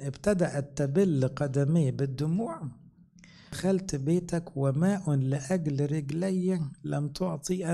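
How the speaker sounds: slow, measured reading of the verse; scripture reading. Acted. Preacher reading the gospel to the congregation, slow and solemn. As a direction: read the verse slowly and solemnly.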